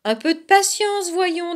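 high-pitched fox talking through a mouthful; lightly faked full-mouth chiding. A narrator's reading. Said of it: "la bouche pleine". (la bouche pleine, voix aiguë)

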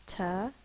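"Ta-may-to" in three separate beats; syllable by syllable. Shown as a demonstration. Teacher showing the syllable breaks, "Ta-may-to" split in three. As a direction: leave a clear gap after each part of "Ta-may-to". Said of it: "Syllable break".

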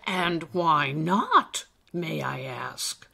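put-on questioning old elf.

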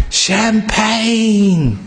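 a high, ringing call of Champagne; shouted champagne. Acted. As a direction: call it out as you slide down. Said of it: "he shouted".

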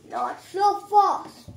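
loud, slow dramatic "not so fast"; mock challenge. Iron Man stops Hulk's victory, loud slow challenge. Rival toy jumps back in.

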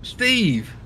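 high, falling cry of the name; incredulous exclamation. Real, not acted. Telling who hit the car, incredulous exclamation. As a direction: call out the culprit high, in disbelief. Calls out the driver at fault.

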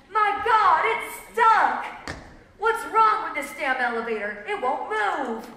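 high, loud exclamation easing toward the end; alarmed outcry. A narrator's reading. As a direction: cry out like a trapped passenger. Trapped passengers panicking in story.

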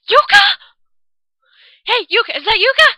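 loud, high shouts of a name; calling out. Real, not acted. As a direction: call out urgently into the dark. Calling out for lost friend.

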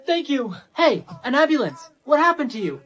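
panicked calling for help. Acted. Injured person skit.

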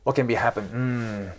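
low, murmured pondering with hums; doubtful thinking aloud, trailing down; mild hesitation. Shown as a demonstration. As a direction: mull it over without committing. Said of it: "What I did this".

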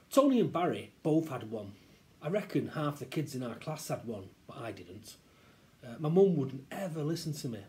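lively, expressive storytelling; story narration. A narrator's reading. Reader tells children the balaclava tale, storytelling. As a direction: tell it as a child's own tale. Reads story aloud to listeners.

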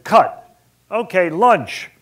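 shouted cut, then lunch; loud director's call. Retold or imitated. Director shouting cut and lunch to the hungry crew. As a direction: call it out loud across the set.

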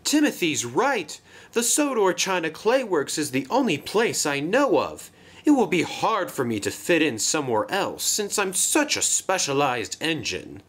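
distraught. A narrator's reading. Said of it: "was rather distraught".

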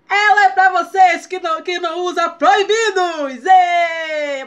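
loud cheering call-out; excited shout. Real, not acted. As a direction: hype shout to the fans. Cheering no-poo crowd.

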